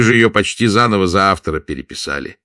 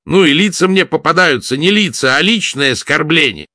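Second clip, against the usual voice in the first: sardonic; 10 semitones higher, 6 dB louder than usual. A narrator's reading. Sardonic quip voiced.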